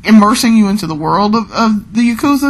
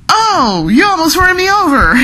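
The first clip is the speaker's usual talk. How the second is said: high, shrill-pitched mock yelp of a nearly run-over passerby; screaming pedestrian; 11 semitones higher than usual. Crazy Taxi pedestrian yelping at the driver, high mock squeal. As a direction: squeal it like someone dodging a taxi. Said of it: "they're like".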